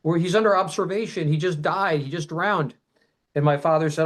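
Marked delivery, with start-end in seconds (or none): 0.0-2.7 lightly voiced nurses objecting; retold nurses yelling. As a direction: plead not to take him. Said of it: "the nurses are yelling".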